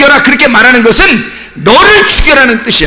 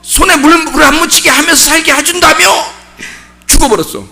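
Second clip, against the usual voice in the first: widow's complaint; 5 semitones higher than usual. Acted. Preacher voicing a widow blaming her late husband, higher pleading tone. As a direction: whine to the husband who broke his promise.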